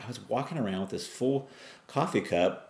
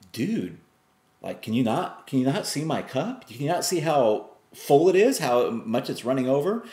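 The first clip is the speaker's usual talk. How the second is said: exasperated retort; 6 semitones higher than usual. Retold or imitated. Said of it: "And you're like".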